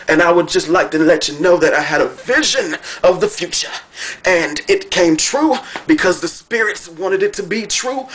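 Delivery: mock preacher calling for a witness; a lightly hammed-up preacher. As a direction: preach it like a church revival. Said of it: "I had to break out the preacher voice".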